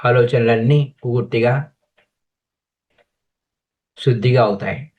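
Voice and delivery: calm, measured meditation guide with long pauses; guided meditation. Real, not acted. Teacher guiding friends to sit and watch the breath, guided meditation. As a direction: guide them into breath awareness, leaving space between phrases.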